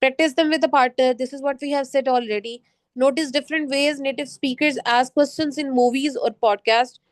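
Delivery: slow, measured reading of slide text; unhurried classroom read-aloud. Acted. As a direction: read each prompt deliberately to the class. Reads slide tips slowly.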